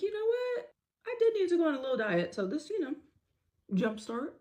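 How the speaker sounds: high, fast, laughing sarcasm. Real, not acted. She jokes about the breakup, laughing. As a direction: laugh through the brave face. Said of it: "laughing it off".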